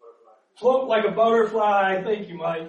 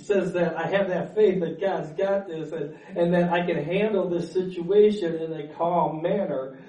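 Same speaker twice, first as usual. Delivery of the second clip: laughing gently. Real, not acted. Calm after getting worked up.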